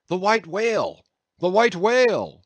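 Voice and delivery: high, rising cry of the hunt; excited cry. A narrator's reading. Captain and harpooneers sight the whale, crying out high and excited. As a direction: call out the prize as the whale appears. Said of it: "was the cry from the captain".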